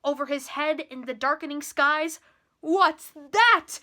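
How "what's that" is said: loud indignant snort of a question. A narrator's reading. King spotting the rising moon, loud indignant snort. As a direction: demand it with a huff. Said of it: "snorted Yertle".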